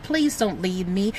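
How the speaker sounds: low, soft, slow pleading; a lightly voiced pleading darkness. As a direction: beg softly and slowly as the darkness. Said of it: "Darkness is like".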